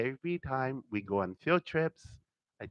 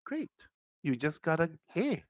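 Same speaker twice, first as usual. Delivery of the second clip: retold praise; 5 semitones higher than usual. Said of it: "And it goes".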